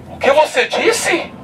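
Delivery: high and slow, shaken; stunned question. Acted. Atheist shaken by the word, high slow stunned question. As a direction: ask it as if struck.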